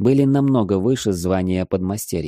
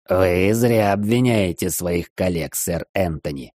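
triumphant; slower than usual. Acted. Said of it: "В голосе сэра Артура я услышал торжество".

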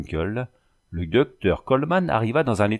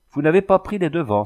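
higher, louder reproachful cry; reproachful exclamation; 7 semitones higher, 5 dB louder than usual. A narrator's reading. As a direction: scold him for not acting first. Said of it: "s'exclama-t-il d'un ton de reproche".

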